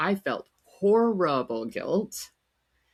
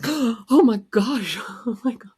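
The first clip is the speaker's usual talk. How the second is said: shocked gasp; 6 semitones higher, 5 dB louder than usual. Retold or imitated. Told her chemo is going well, caught off guard, horrified. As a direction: gasp it out in dismay. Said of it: "And I'm like, gasps".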